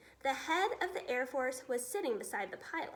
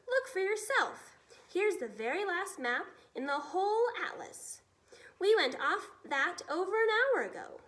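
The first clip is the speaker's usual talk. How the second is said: high, loud blustering officer; exasperated shout; 6 semitones higher, 5 dB louder than usual. Acted. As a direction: jab at the map in outrage. Officer exasperated showing atlas.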